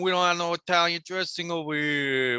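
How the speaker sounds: high hammed-up Italian chef voice; Chef Boyardee voice. Italian waiter scolds a customer, in a high hammed-up Italian accent. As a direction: bark it like a cartoon Italian cook. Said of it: "Chef Boyardee voice".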